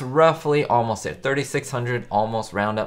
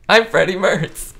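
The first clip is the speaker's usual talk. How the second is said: slow, louder, higher self-introduction; Fred's introduction; 9 semitones higher, 7 dB louder, slower than usual. Retold or imitated. Streamer quoting Fred, slow and loud. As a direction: announce yourself with mock pomp. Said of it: "And Fred".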